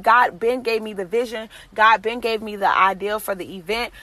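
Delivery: normal talking voice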